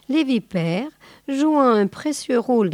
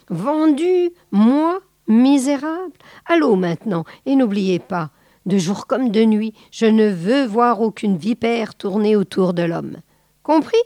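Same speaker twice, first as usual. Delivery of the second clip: indignant boa; 2 semitones higher, 3 dB louder than usual. Acted. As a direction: spit out the insult back at them. Boa angrily voicing.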